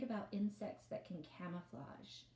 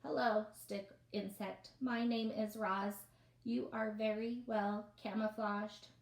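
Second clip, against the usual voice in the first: lightly voiced robot, steady and even; 3 semitones higher, 6 dB louder than usual. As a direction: read it like a polite robot. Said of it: "I forgot my robot voice".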